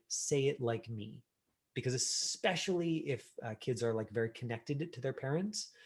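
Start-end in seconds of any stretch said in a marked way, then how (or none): 0.1-1.2 slow instruction. Retold or imitated. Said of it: "I don't have to say".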